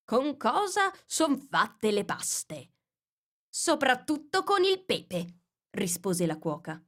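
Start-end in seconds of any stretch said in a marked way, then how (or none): 0.0-2.7 slow, higher, weighty question; mock-solemn interrogation; stern king. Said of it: "disse con voce profonda". 3.5-5.4 higher, slow, blunt answer; a gruff cook's reply; lightly voiced cook.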